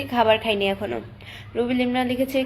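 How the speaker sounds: usual speaking voice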